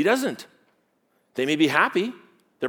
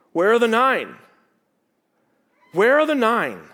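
Jesus asking; 8 semitones higher, 5 dB louder than usual. A narrator's reading. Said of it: "Then Jesus answered".

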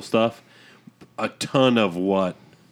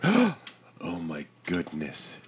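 mock shock; 6 semitones lower, 8 dB quieter, much slower than usual. Mimics the shocked public reaction.

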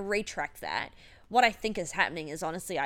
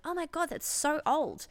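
higher-pitched mock horrified reaction; mock shock; 7 semitones higher than usual. Woman imitating her mid-twenties self seeing someone's age, mock shock. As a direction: imitate a young person's appalled gasp of disbelief.

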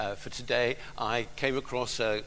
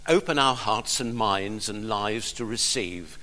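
spoken prayer. Acted. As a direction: pray aloud for the people, then let it drop to a hush. Pastor leads congregation in prayer.

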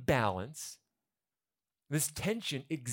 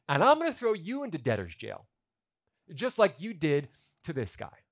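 louder, indignant king's pronouncement; angry master; 3 semitones higher, 5 dB louder than usual. Pretend. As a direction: lay down the punishment.

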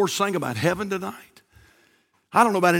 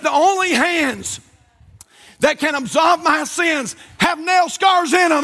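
emphatic declaration; 5 semitones higher, slower than usual. Retold or imitated. Patient's climactic declaration.

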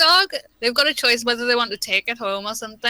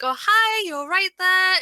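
high, perky customer greeting; work voice; 6 semitones higher, slower than usual. Shown as a demonstration. Showing her shop voice, high friendly greeting. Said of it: "the voice that I use at work".

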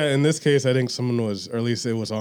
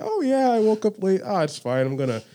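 carefree self; 3 semitones higher than usual. Retold or imitated. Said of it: "I was literally enjoying my day".

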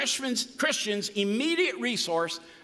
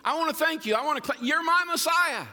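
just talking to God, pitched up and eager; simple heartfelt prayer; 6 semitones higher than usual. Shown as a demonstration. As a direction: pray to Jesus like talking to a friend. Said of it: "it's really this simple".

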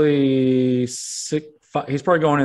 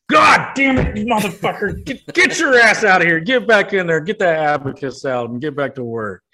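angry yelling; 5 semitones higher than usual. Acted. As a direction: blow up and order the son back to work. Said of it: "Daddy, please don't yell at me".

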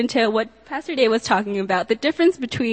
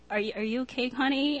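gentle concern; 3 semitones higher, 8 dB quieter, faster than usual. Retold or imitated. Roommate gently checking on her.

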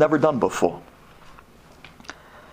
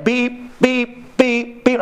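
fridge beeps; 8 semitones higher, much slower than usual. Retold or imitated. Imitating fridge sensor.

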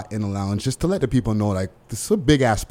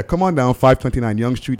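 louder, punchier radio ad retake; commercial voice; 4 dB louder than usual. Shown as a demonstration. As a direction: sell it harder, like a real ad. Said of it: "This commercial voice needs work".

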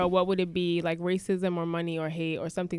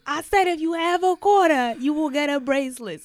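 higher, louder pushy saleswoman; a hint of a stern seller; lightly voiced street vendor insisting; vendor lady voice; 6 semitones higher, 5 dB louder than usual. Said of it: "So she was like".

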